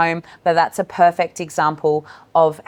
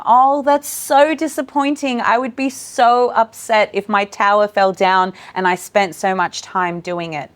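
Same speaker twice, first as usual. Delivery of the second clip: slow, sympathetic and caring; acknowledging; 3 semitones higher than usual. Shown as a demonstration. Educator comforting a child whose tower fell, slow and sympathetic. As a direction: really feel the child's loss with them. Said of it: "we have to acknowledge them".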